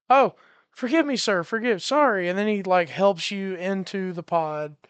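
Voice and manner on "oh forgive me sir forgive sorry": flustered apology. Acted. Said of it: "He's like".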